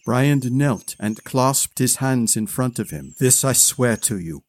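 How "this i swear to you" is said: solemn oath. Acted. Kneeling oath to dead king.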